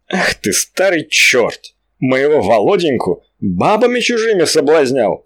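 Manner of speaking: mild mock fury at the old devil; flaring up. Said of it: "вскинулась Алёнка". (Алёнка вскидывается и бранит старика)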